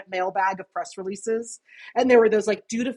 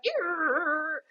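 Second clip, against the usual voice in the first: drawn-out modem screech imitation; imitated dial-up noise; 7 semitones higher, 5 dB quieter than usual. Recalling old internet connections, imitating the line noise. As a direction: mimic the noise on the phone line. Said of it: "you'd hear the".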